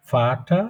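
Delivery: "ফাটা" starting with an F sound; German V as F. Shown as a demonstration. Teacher contrasts German with foreign words, F sound. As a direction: say "ফাটা" with F for the letter V. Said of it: "ফয়ের মতন উচ্চারণ হবে".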